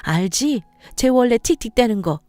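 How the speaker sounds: lightly voiced calming mother-in-law; gently smooth things over; soothing mother-in-law.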